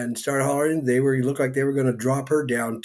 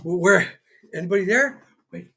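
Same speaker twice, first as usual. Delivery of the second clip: high-pitched jittery guy voice, much higher throughout; comic character voice; 13 semitones higher than usual. Acted. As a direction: play a nervous, excitable man rushing in. The speaker arrives in character voice.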